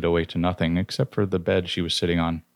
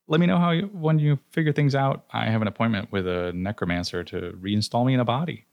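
grandly mock-polite; 6 semitones higher than usual. Dead man taunting the gods who claim his soul, smug. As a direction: play it lofty and pleased with yourself. Narrator's character addresses the gods.

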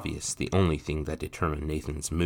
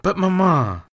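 much higher and louder insistence; barked demand; 14 semitones higher, 10 dB louder than usual. Acted. Mother demanding her son's promise, sharp then calmer. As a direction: bark the order, then ease off. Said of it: "Margot barked and then calmed".

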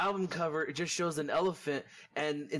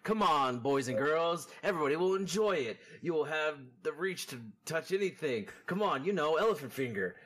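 salesman pitch; 2 semitones lower than usual. Acted. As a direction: sell it like an infomercial host.

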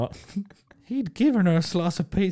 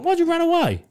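tag; 6 dB louder than usual. Retold or imitated. Retelling confronting the runaway.

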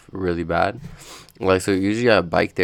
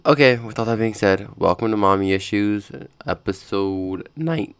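voice cracking; 2 semitones higher, 3 dB louder than usual. Real, not acted. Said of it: "my voice cracked like I'm fucking twelve".

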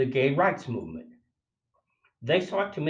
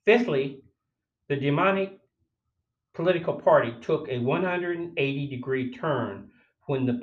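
reading the essay aloud like a sermon; declaiming the essay. Real, not acted. Reading his essay commentary aloud, declaiming. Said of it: "I'm gonna read it as I read the introduction".

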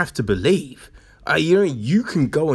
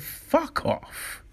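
hissed dismissal; 11 semitones higher, 7 dB quieter than usual. Real, not acted. Dismissing the excuse.

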